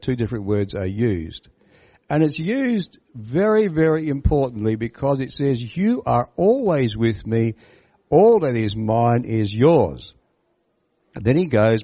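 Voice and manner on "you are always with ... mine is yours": slow, fond reassurance; tender father. Shown as a demonstration. Father reassuring his older son, slow and tender. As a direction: let the father's love slow every word. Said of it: "it's an endearing word".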